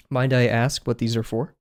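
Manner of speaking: flat, even robotic delivery. Real, not acted. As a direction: ask it like a stiff robot. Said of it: "Why did I sound like a robot".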